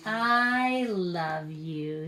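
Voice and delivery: put-on slow, drawn-out loving toddler line; little Max. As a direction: stretch it out sweetly. Max's line in the story.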